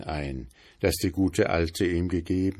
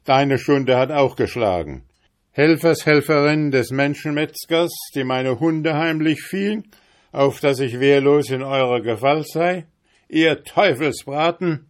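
higher, louder furious denunciation; angry; 7 semitones higher, 5 dB louder than usual. A narrator's reading. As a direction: condemn her with rising anger. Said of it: "rief jetzt zornig der Gesell".

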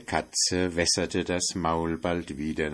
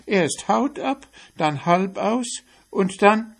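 much higher, louder accusing cry; outraged mouse; 11 semitones higher, 6 dB louder than usual. Acted. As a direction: accuse the cat in shock. Mouse finds pot empty.

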